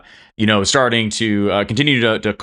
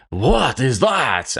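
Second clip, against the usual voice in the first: high, drawn-out French cook exclamation; clumsy stab at a French accent; astonished cook with a shaky French accent; attempted French accent; 5 semitones higher, much slower than usual. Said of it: "try to do a French accent".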